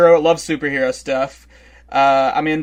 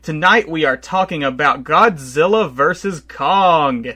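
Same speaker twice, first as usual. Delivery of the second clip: announcer voice. Pretend. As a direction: hype up the show like an announcer. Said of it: "I should stop talking in this announcer voice".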